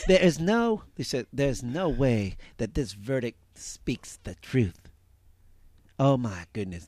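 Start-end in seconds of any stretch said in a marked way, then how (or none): 0.1-4.9 Nancy Grace impression. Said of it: "Nancy Grace also said".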